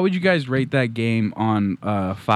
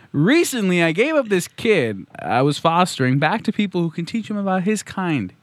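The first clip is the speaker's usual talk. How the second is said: lightly acted, higher-pitched plea; earnest letter-writer; 5 semitones higher than usual. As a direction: read the confession a little higher, easing down toward the end.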